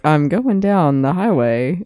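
slow sing-song imitation; lightly sung cartoon voice; imitating the cartoon song. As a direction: mimic the cartoon line. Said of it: "Yes, like that, exactly like that".

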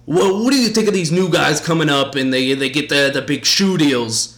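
imitating the host asking older players; leading interviewer question. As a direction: ask it like a pushy host fishing for an answer. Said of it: "as older guys, like".

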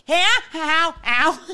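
high, loud yelps of pain; ow, cat claws in her thigh; real pain. Real, not acted. Host clawed by her cat, yelping in pain. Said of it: "Junie just clawed the shit out of my thigh".

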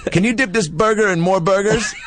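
canned doll catchphrase; pull string toy. Pretend. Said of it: "Pull the string again".

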